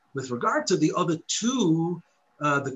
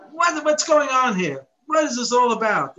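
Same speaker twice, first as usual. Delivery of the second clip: scornful, louder, slowed-down challenge; pejorative tone; 4 semitones higher, 4 dB louder than usual. Shown as a demonstration. Teacher voicing the wicked son's question with contempt. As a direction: sneer the question like it's a waste of time. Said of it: "in a type of pejorative way".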